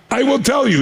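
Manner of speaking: high, emphatic retold announcement; imitated Gorbachev. Leader breaking into English after laughing, imitated announcement. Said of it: "He spoke in English".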